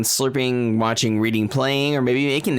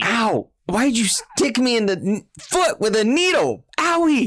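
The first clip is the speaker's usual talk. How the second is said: very high, whiny mock yelping; mock pained squeal; 11 semitones higher than usual. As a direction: squeal as if play-hurt by a needle. Acted yelp at being pricked.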